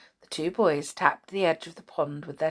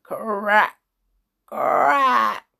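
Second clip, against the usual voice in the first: cracking ice imitation; much slower than usual. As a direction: make the word sound like ice splitting.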